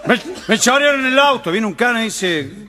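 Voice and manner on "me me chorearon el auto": put-on high-pitched, half-shouted drunken complaint; mock outraged drunk; drunken yelling. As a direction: stammer into a comic drunken holler. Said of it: "estaba a los gritos, chupado".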